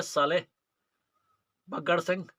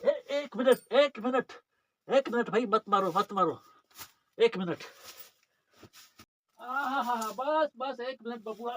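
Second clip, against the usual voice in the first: Bhojpuri-flavoured plea to stop the beating; protesting rustic. Acted. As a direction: cut in repeatedly, urging them to hold off. (देहाती लहजे में रोकने की गुहार)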